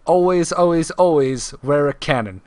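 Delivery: put-on deliberately poor British accent; bad British accent. Host hints who said the quote, bad British accent. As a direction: read it in your worst British accent. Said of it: "that's my worst British accent possible".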